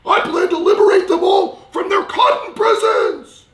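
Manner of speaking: put-on high, loud, shouting old man; grumpy old man voice. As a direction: bellow it like a cranky old geezer. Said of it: "get my old man voice".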